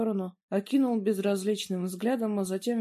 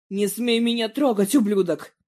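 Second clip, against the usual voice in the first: angry shout; 3 semitones higher, 8 dB louder than usual. A narrator's reading. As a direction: snarl it while yanking free. Daniela pulls her elbow free.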